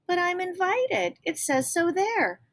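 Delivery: a hint of a hurt young girl; girl protesting. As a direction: insist you were invited. Ellie protests sisters.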